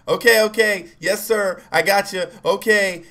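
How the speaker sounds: high, loud, hurried agreeing; panicked compliance. Retold or imitated. Boy to cop waving a gun, imitated panicked compliance. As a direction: give in at once as if held at gunpoint. Gun waved in his face.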